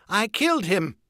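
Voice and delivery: high, loud cried confession; desperate cry. A narrator's reading. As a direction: cry it out under threat. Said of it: "cried Wojin".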